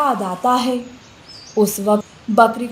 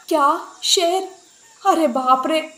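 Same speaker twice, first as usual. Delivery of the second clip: high startled cry of alarm; panicked gasp; 5 semitones higher than usual. Acted. Goat hearing of the lion, in sudden panic. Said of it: "बकरी शेर का नाम सुनते ही घबरा जाती है".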